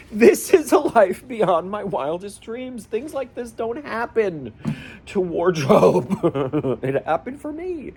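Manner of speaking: slow, high, tearful wonder; real choked-up disbelief, drawn out; overcome with emotion. Real, not acted. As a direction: laugh through tears, voice climbing high. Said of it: "I am extremely emotional".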